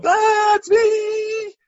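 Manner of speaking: very high, loud, drawn-out yell; mock reveal shout. Jesus not forcing himself on Mary, mock reveal shout. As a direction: burst out with a hammed-up high holler. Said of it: "He doesn't go".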